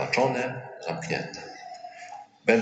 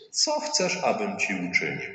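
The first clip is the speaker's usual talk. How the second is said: gentle question. Retold or imitated. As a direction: ask what he truly wants. Jesus asks the blind man. (wysokie, łagodne pytanie Jezusa do niewidomego)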